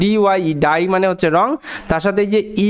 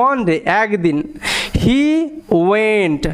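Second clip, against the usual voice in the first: slow teaching read; much slower than usual. Shown as a demonstration. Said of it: "ভালো মতো বোঝো".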